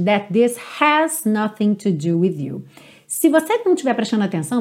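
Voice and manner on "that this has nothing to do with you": slow line, "this has" linked with a light h; faint H. Shown as a demonstration. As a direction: let the h of "has" nearly fade after "this". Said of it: "você não ouve claramente".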